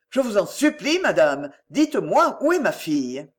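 urgent, restrained plea from a father; pleading. Acted. Father begging a visitor for his daughter, pleading. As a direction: implore with contained urgency.

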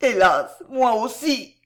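moaned lament.

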